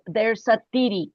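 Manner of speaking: TIRI with t replacing th; mispronounced THEORY. Retold or imitated. Quoting the teacher for the class to guess, mispronounced "tiri". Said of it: "he pronounced".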